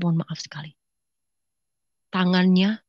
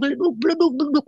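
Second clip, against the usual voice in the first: imitated thuds; 7 semitones higher, faster than usual. Imitates blows of a beating.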